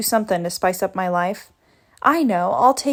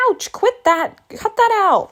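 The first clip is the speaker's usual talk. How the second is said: higher, louder yelps of pain and protest; 9 semitones higher, 4 dB louder than usual. Acted. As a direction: yelp and tell them to stop. Being hurt, protesting.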